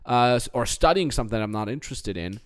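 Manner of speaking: hammed-up lazy excuse-maker; mock defeatist whining. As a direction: mimic someone giving up on a dream. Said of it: "throw the hands in the air and say".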